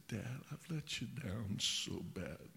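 imitated sobbing. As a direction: act out a boy crying with shame, slowly. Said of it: "he was just sobbing".

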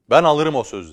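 loud, high call from the crowd. Acted. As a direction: shout out the offer. Buyer calls out from crowd.

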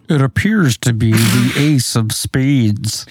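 slow, drawn-out Sentinel impression. Podcaster mimicking a cartoon Sentinel for co-hosts, Sentinel voice. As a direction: intone it slowly like a Sentinel. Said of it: "That's my Sentinel voice".

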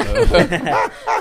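loud high-pitched laughter. Real, not acted. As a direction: burst out laughing. Laughing at own story. (risada alta e aguda)

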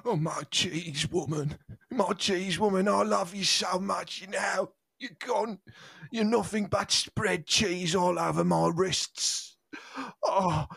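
hammed-up grief. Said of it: "tragic scene ... closing monologue".

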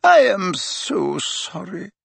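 high, slow, sorrowful apology; heartfelt condolence. A narrator's reading. McGonagall greets the stricken parents, sorrowful. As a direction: stretch the sympathy out in a high voice.

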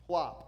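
loud, short mouthed plop; popped-out plop; plop sound effect. Shown as a demonstration. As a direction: imitate something dropping into water. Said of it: "It was good sound effects".

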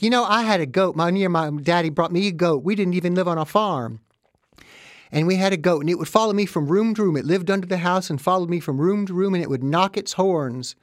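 a lightly hammed-up mom recalling her goat; imitating mother. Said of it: "my mother's like".

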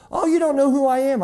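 high, fast and playful; student ribbing his preacher, pitched high; teasing question. Retold or imitated. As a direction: tease him for not knowing you. Young man teasing the preacher.

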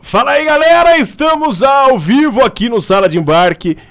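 excited greeting. Real, not acted. Shouting hello in stories video.

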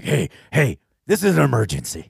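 imitating a radio DJ; lightly voiced radio host. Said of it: "My radio voice that you do is great".

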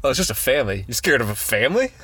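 lightly acted incredulous movie dad; mild mock disbelief, rising at the end; Winston Duke. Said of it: "super funny line of, uh, Winston Duke".

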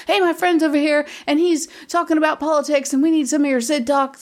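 channel the crazy guitar player; imitating college friend. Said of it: "That's exactly how he talks".

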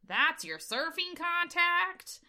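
high, drawn-out mock disbelief; incredulous disbelief. Podcaster acting out Busey seeing the profile, incredulous. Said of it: "in such incredulous disbelief".

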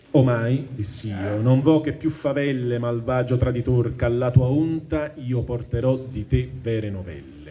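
slow, measured reading of Dante's verse; poem recitation. Acted. Teacher reading the Inferno to the class, measured recitation. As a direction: recite the tercets with weight.

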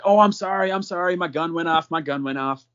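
repeated sorry, starting high and fading; acted flustered apology. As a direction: imitate a rattled guy apologizing. Shooter apologizing for accidental shot, acted.

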